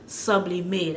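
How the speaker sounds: "Sublimate" with stress on sub, no final T; English front stress. Shown as a demonstration. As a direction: hit SUB in "Sublimate", drop the T. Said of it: "that's a, how English will".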